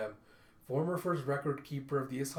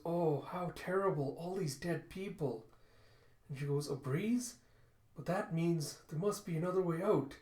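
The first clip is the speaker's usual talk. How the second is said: put-on fox girl voice; 4 semitones higher than usual. Kippa among the dead people in the tomb, high fox girl voice. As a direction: lift the voice into a small, wondering fox.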